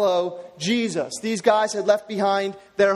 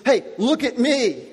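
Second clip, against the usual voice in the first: paraphrasing Peter; 4 semitones higher than usual. Retold or imitated. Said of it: "it literally means".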